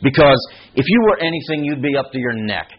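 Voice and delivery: imitating a dismissive critic, lightly hammed-up; mock dismissive judgement. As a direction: rattle off a mock scolding. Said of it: "He doesn't talk like that".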